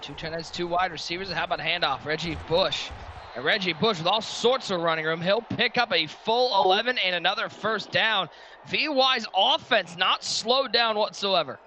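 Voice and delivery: sportscaster following the runner, stretching the finish; live play-by-play. Real, not acted. Announcer calling a first-down run, building play-by-play.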